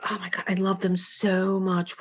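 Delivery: breathy, devoted whisper; gushing whisper. Real, not acted. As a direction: whisper it like a love confession. Gushing about favourite band.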